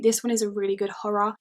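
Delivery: breathless, whispery and winded; out of breath. Real, not acted. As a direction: talk while out of breath. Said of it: "Breather, I'm out of breath".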